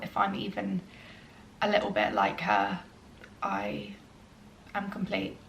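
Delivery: soft, emotional, with halting pauses; getting emotional. Real, not acted. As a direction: hold back emotion as you speak softly. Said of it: "Sorry, I'm getting really emotional".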